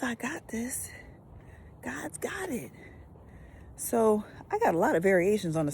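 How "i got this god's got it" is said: whisper. Shown as a demonstration. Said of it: "explaining God's word, hushed".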